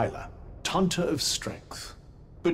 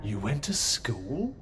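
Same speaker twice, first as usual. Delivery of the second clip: a breathy, disbelieving whisper; whispered surprise; 4 semitones lower than usual. Acted. Companion whispering to the street girl, surprised. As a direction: tease her under your breath. Teasing surprise at her schooling.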